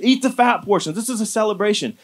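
rally the crying crowd to celebrate; eager urging. Retold or imitated.

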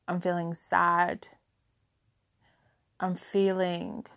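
soft, slow, holding back tears; naming her feelings to herself, voice catching; tearful. Real, not acted. Softly listing feelings, close to tears. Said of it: "I don't even know why I'm getting emotional".

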